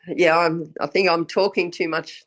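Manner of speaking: hoarse, croaky from bronchitis; rough croaky throat. Real, not acted. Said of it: "the croaky voice".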